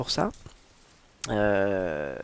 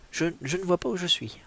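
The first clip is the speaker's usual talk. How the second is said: 1 acting out Hélène; 6 semitones higher than usual. Shown as a demonstration. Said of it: "on va faire un peu vraiment en situation".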